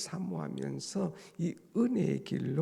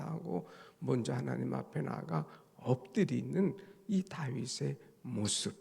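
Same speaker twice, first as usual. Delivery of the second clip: usual speaking voice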